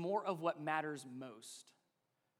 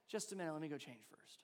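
dismissive reply; 4 semitones lower, 10 dB quieter, faster than usual. Retold or imitated. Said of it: "And then I say".

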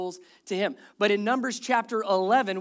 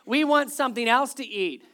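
louder, raised grumbling imitation; mock complaining; 4 semitones higher, 5 dB louder than usual. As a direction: gripe like the fed-up Israelites. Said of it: "then they started to complain".

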